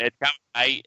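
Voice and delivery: lightly hammed Australian accent. Co-host promising the accent is coming, mock Australian. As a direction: ease into a mock Aussie accent. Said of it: "where's the accent?".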